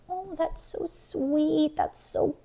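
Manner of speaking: a light mock-sweet gushing voice. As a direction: gush like a gullible fan. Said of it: "people are thinking, like".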